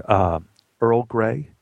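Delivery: hesitant, halting answer; stammered. Acted. Actor asked his tea choice by assistant director, stammering. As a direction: falter before naming it, unsure. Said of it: "I, I stammered".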